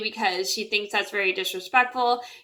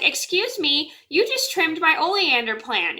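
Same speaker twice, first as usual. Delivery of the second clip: higher-pitched, mildly affronted mock complaint; irritated mom; 6 semitones higher than usual. Mom to neighbor who trimmed her oleander, mildly irritated. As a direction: imitate mom calling someone out, mildly miffed. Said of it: "she gets kind of irritated".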